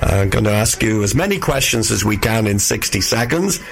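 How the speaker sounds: real hoarse, croaky throat. Real, not acted. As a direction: speak through a croaky voice. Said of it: "apologies for the croaky voice".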